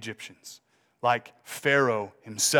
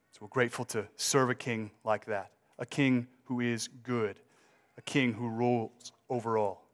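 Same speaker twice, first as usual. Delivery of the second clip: prayer. Acted. Closing prayer.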